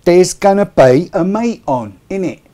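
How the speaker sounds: loud, slow mock Cockney, h-dropping "half past four"; hammed-up London accent for southern viewers; Cockney announcement, played for laughs; put-on Cockney. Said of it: "I'm talking like this so Bob Oldkit can understand me".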